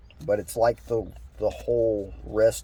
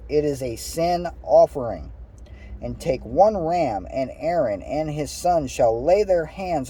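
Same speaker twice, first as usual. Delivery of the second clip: measured read-aloud voice; deliberate, lilting verse reading; scripture reading; 3 semitones higher than usual. Acted. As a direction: read the instructions out phrase by phrase. Reads scripture aloud to listeners.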